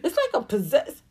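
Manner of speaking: high, soft, airy mock of a dazed star; mocking spacey singer. Mocking the singer explaining her stage demon, soft and dazed. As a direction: play her as lost in a trance. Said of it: "you was like".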